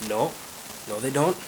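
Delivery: mild put-on Irish brogue; understated Irishman replying; Irish accent. Edward answers William's boast, Irish accent. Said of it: "there's two Irish guys".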